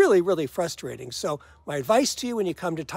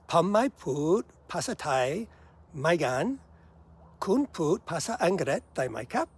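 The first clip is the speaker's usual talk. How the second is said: careful studied Thai. Retold or imitated. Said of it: "in my very best studied Thai".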